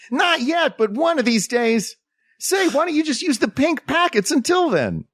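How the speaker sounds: high, put-on child voice with a southern accent; a young boy with a southern lilt; childhood voice. Voicing his childhood self.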